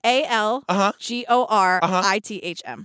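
spelled letter by letter, slowly; "A L G O R I T H M" said one letter at a time; spelling it out. Shown as a demonstration. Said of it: "Can you spell that word for me?".

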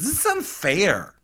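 high, drawn-out mock complaint; mock whine. Owner complains to the other owners, in a mock whine. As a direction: whine it, hammed-up. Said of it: "then he basically whines".

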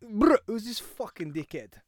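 badly faked Birmingham street talk; Birmingham accent. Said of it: "That was my Birmingham accent".

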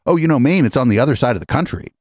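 lightly patronizing mimicry, pitch easing down; condescending imitation. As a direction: imitate someone talking down to an audience. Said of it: "after condescending to them, going".

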